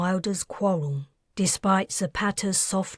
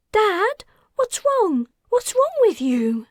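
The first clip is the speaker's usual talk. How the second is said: put-on high, louder panicked girl; alarmed; 5 dB louder than usual. A narrator's reading. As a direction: cry out to her father in fear. Daughter sees father melting.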